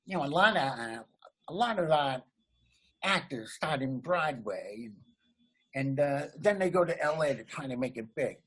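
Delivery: half-hearted take on Jay Leno's delivery; Jay Leno impression. Asked to do his old Leno bit, he tries a loose Jay Leno impression. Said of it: "I know that wasn't a great impression".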